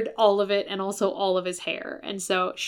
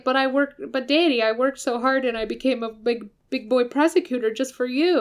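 pleading to daddy, a bit higher; whiny son; 4 semitones higher than usual. Retold or imitated. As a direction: whine like a needy boy to his father. Sebastian whining to his father.

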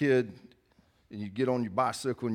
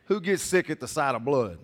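asks again, louder and pushing; calls out louder to make the crowd answer; louder repeat; 3 semitones higher, 4 dB louder than usual. Real, not acted. Preacher repeats his question to the congregation, louder and insistent. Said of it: "Thank you".

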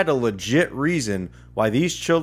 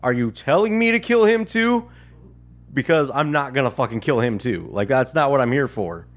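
indignant disbelief. Retold or imitated. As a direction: ask in disbelief, then shut it down hard. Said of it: "the way I heard it in the inflection of his voice".

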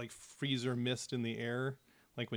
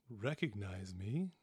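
a low, breathless hiss of a reveal; voiceless whisper closing the line; 5 semitones lower, 5 dB quieter than usual. Acted. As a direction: drop to a secretive whisper. Villain's sly reveal to his son.

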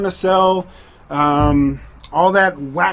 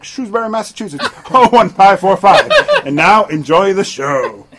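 fast pitchman ad read; 2 semitones lower, faster than usual. Acted. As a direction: sell it like a drug commercial. Fake drug commercial read.

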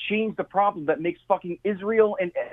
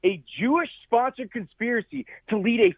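worked up, pitched-up argument; yelling; 4 semitones higher than usual. Real, not acted. Guest arguing with host over conspiracy theories, hyped and yelling. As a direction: press the point, voice raised and hyped. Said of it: "I'm yelling".

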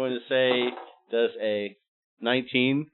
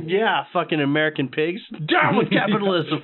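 put-on Russian accent; 5 semitones higher, 4 dB louder than usual. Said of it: "in a Russian accent when I'm a pig".

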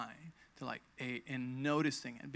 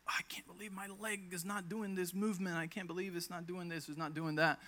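frustrated; 4 semitones higher, 4 dB quieter than usual. Retold or imitated. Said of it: "I would get frustrated with my body".

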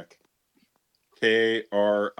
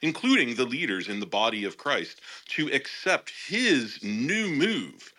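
imagined prophetess voice. Acted. Host reading her written prophecy aloud, mock prophetess proclamation. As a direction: intone it like a solemn warning from God, stretching key words. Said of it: "I'm gonna read it like this".

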